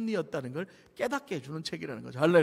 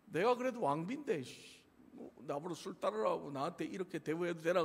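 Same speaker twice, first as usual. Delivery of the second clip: sulky queen; 9 dB quieter than usual. Retold or imitated. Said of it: "소위 말해 삐진 거죠".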